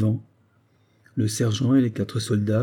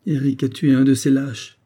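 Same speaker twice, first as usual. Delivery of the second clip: forced joy; 4 semitones higher, 4 dB louder than usual. Acted. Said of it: "balbutia-t-elle avec une fausse joie".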